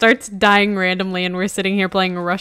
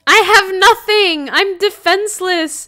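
mock helpless; 11 semitones higher, 10 dB louder than usual.

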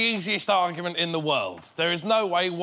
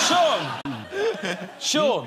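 raised call to rouse someone. Pretend. Calling a teammate who says he is sleepy, calling out.

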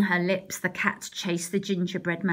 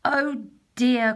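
dismayed cry; 3 semitones higher, 4 dB louder than usual. Acted. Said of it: "cried Mister and Missus Baker".

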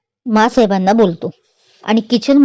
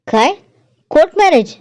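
much higher, shocked disbelief; dismayed surprise; 7 semitones higher than usual. A narrator's reading. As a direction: gasp it out as bad news. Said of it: "तोंड पाडून बोलतात". (धक्का बसलेला निराश प्रश्न)

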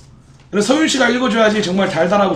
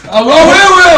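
startled protest; 9 semitones higher, 9 dB louder, much slower than usual. Real, not acted. Reader stops, he reacts.

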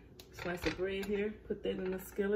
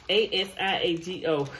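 laughing; 4 dB louder than usual. Real, not acted. Spelling the cheese name, laughing.

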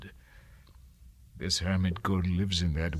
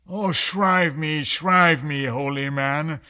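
louder, higher desperate plea; pleading cry; 5 semitones higher, 7 dB louder than usual. Acted. Mariner begging the hermit to shrive him. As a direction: beg for absolution.

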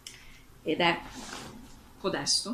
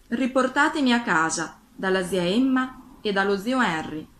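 story narration; 2 semitones higher, 5 dB louder than usual. A narrator's reading. Dorothy wishes herself home to her aunt and uncle, emphatic story reading. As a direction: read the wish out, raised and emphatic. Reads Dorothy's wish aloud.

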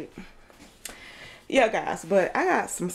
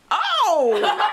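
disgusted oh; 11 semitones higher, 5 dB louder than usual. Real, not acted. Disgusted at smell.

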